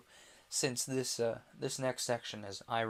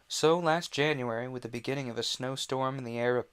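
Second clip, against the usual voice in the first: raised, projected audiobook opening; story narration; 3 semitones higher, 6 dB louder than usual. A narrator's reading. Narrator opening the Emporium chapter, projected storytelling. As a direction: launch into the tale with energy.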